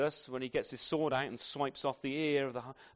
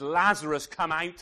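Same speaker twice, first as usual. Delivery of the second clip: commanding call; 6 dB louder than usual. Acted. Jesus calling Lazarus out.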